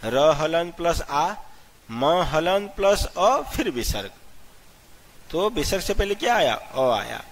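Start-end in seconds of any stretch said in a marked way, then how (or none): 0.1-4.1 slow spelling out. Shown as a demonstration. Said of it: "राम को पूरा split करके देखिए".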